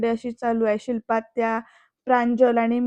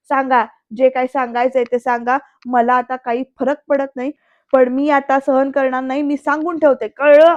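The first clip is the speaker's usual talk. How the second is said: defiant mock yell, building to a loud last word; retold angry shouting; 6 dB louder than usual. Aunt defies Mai, retold angry shouting. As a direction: lay down a warning, then burst out. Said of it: "म्हणते माईंकडे ओरडत".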